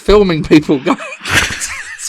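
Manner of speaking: loud, high, laughing confession; laugh-shouted punchline; cracking up. Real, not acted. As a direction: burst into laughter while telling it. Confessing an embarrassing blunder, cracking up.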